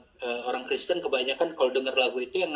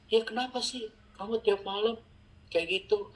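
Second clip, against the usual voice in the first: higher-pitched questioning voice; puzzled sibling; 6 semitones higher than usual. Retold or imitated.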